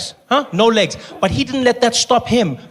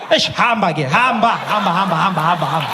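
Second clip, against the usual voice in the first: chuckling hamba hamba waved on; laughing send-off; 3 semitones lower than usual. Acted. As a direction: laugh as you wave them through. Cop waving driver on.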